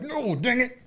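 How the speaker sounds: mock defeat; comic frustration. Man retelling his embarrassed reaction, mock annoyed.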